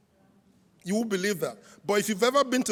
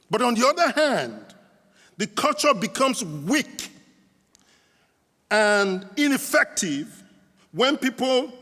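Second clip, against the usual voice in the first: preaching. Acted. Preacher to conference church crowd, declaiming the point.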